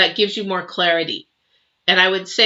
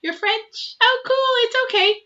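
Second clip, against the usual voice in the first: higher, bright delighted surprise; pleasant surprise. Real, not acted. Reacting to a viewer who says she is French, pleasantly surprised. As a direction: sound charmed by the news.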